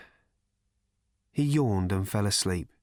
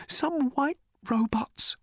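high, slow, hoarse whisper; slower than usual. Acted. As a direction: rasp it in a whisper. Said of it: "whispered the man hoarsely".

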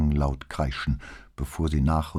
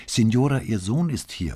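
nun calling louder; 6 semitones higher, 3 dB louder than usual. A narrator's reading. Nun calls louder to old woman.

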